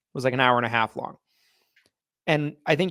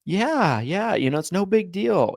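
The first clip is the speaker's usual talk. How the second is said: casual, higher, shrugging yeah; nonchalant; 6 semitones higher, slower than usual. Shown as a demonstration. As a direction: toss it off like nothing. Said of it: "your tone is like".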